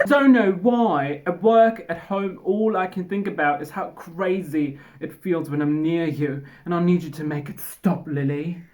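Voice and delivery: hammed-up British confession; British accent. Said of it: "Oh wait, he's British".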